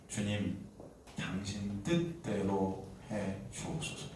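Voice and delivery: low, slow, hushed prayer; submissive confession. Acted. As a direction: surrender softly, pausing between phrases. Acts the centurion's surrendered confession. (낮고 느리게 순종하는 기도)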